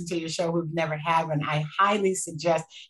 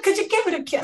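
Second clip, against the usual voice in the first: attempted British accent; 13 semitones higher, faster than usual. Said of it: "and they were British".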